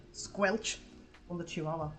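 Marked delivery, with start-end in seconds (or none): 0.1-0.8 squelch sound. Retold or imitated. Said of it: "takes her paw and goes like".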